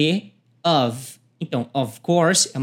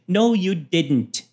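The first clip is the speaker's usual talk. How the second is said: slow, clear "No, you didn't."; slow teaching demo; slow model line; slower than usual. Shown as a demonstration. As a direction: say each word slowly for learners. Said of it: "E o B fala o seguinte".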